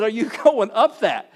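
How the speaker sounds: wife's incredulous question. Retold or imitated. Wife doubting the big dune.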